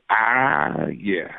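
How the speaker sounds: low, dropping deep voice; Morgan Freeman. Shown as a demonstration. Impressionist showing his easy Morgan Freeman, low and deep. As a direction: sink into a deep calm drawl. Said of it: "The Morgan Freeman was".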